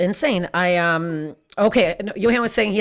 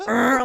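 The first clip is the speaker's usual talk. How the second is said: higher-pitched imitated "arr" noise; mock groan; 5 semitones higher than usual. Comedian imitates herself found dead in the swing, mock groan. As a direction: groan like a stuck wet woman. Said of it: "this wet woman just, like".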